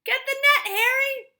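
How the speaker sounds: loud, high mocking shout; policeman shouting. A narrator's reading. Second policeman jeering at the mother, loud and high. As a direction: call for the net with glee. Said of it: "said the second policeman".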